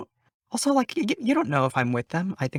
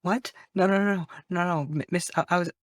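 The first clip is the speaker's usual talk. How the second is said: panicked denial; 6 semitones higher than usual. Acted. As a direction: blurt it out in a rush of alarm. Attacked, pleading in character.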